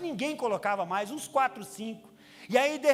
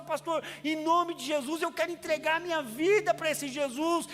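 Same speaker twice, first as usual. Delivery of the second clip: crying plea; 5 semitones higher than usual. Retold or imitated. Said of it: "chorando desesperadamente".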